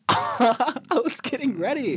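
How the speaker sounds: high, loud, drawn-out whine; comically wounded high-pitched complaint; mock protest. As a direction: protest in a squealed, stretched-out voice. Protests being cut off from singing.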